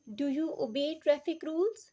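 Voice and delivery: slow question, voice rising on "rules"; rising intonation. Shown as a demonstration. Teacher models a yes-no question, rising at "rules". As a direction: ask it slowly, lifting the end at "rules". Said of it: "हमारी rising intonation है".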